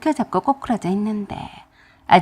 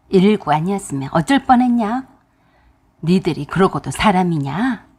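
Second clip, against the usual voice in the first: stern rebuke; 2 semitones lower than usual. Retold or imitated. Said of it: "호통을 크게 치셨어요".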